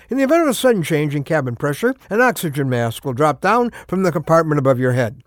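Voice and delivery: brisk safety announcement read; flight attendant. Retold or imitated. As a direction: recite it like cabin crew. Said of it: "It goes something like this".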